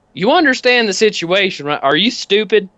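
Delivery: lightly voiced biker sneering; scornful biker. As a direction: biker mocking the driver, scornful. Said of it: "He's like".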